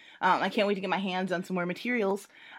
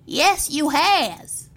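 slow, higher, eerie voice; creature's reply; 7 semitones higher, 4 dB louder, much slower than usual. Acted. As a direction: drag it out like a monster closing in. Creature answers the man.

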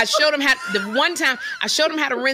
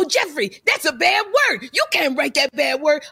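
mock scolding mom; 4 semitones higher than usual. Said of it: "my mom's gonna go".

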